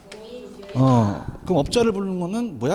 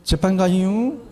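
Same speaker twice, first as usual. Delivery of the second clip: Chungcheong accent; 2 semitones higher, much slower than usual. Shown as a demonstration. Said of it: "다시 한번".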